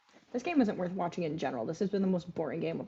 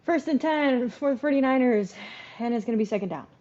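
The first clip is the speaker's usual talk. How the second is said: loud sportscaster call; mock TV announcer; play-by-play; 4 semitones higher, 6 dB louder than usual. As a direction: call the down like a commentator. Play-by-play of game.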